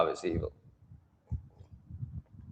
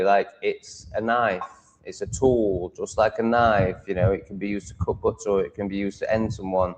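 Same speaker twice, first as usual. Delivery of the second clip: usual speaking voice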